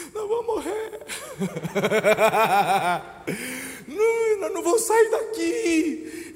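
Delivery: high, wailing sobbed words; crying in panic. Retold or imitated. Preacher imitating a terrified sister crying in the sandstorm. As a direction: voice the sister breaking down in tears. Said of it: "ela começou a chorar".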